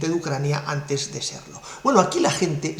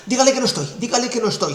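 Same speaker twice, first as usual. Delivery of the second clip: higher, panicky plea to hide; scared whisper-plea; 5 semitones higher, much faster than usual. Retold or imitated. President begging secretary to dodge Merkel's call, panicky and higher. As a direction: beg her to say you're out. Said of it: "muerto de miedo le dice a la secretaria".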